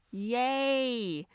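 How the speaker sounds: sarcastic high yay; mock cheer. Inviting viewers to eat Costco muffins, mock cheer. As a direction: cheer in fake celebration. Ironic invitation to inflame joints.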